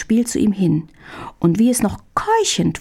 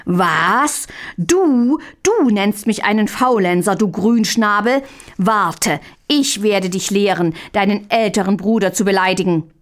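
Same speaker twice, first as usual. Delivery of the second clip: bellowing rage. Acted. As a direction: roar at the cheeky younger brother. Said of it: "brüllte noch lauter". (wütendes Brüllen, gegen Ende schneller)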